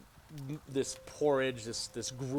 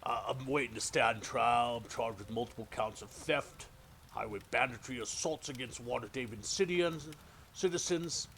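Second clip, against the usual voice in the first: lightly voiced thief; 2 semitones higher than usual. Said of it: "he says".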